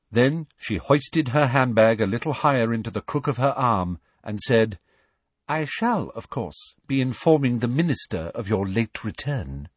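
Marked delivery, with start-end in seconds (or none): 5.5-9.7 prim high Umbridge voice. Acted. Umbridge threatens Hagrid.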